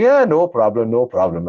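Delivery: imitating an Indian monk's accent. Retelling the monk reassuring him at the river, Indian accent. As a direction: put on a light Indian English accent. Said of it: "This Indian accent".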